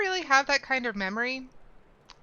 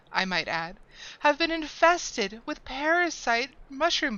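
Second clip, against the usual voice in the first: fussy gardener voice; 5 semitones higher than usual. Acted. Voices gardener quest-giver.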